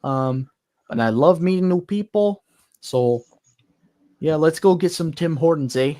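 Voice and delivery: lightly done Canadian accent with eh; a friendly Canadian engine saying hi, eh. Shown as a demonstration. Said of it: "a standard Canadian voice for Royal Hudson".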